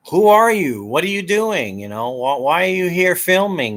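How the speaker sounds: a shop owner confronting the cameraman. Retold or imitated. A business owner challenging a stranger filming, demanding.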